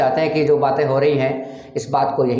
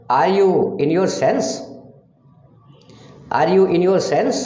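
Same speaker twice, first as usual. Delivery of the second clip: 1 slow demo; 4 semitones higher, much slower than usual. Shown as a demonstration. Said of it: "teacher demonstrates English sentence".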